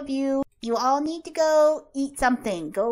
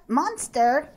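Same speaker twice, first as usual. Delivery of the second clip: laughing disbelief; slower than usual. Real, not acted. Reading that kids saw a monster.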